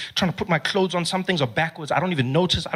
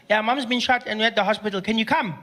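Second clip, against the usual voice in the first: little brother voice; 5 semitones higher than usual. Retold or imitated.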